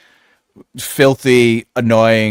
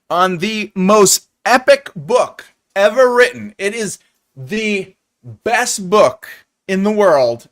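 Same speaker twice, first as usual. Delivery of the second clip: slow grand hype; 3 semitones higher, 3 dB louder, slower than usual. Real, not acted. Hyping epic book.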